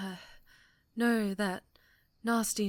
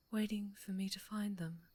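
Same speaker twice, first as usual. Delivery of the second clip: whispered longing; 6 dB quieter than usual. Acted. Villain musing on new obsession.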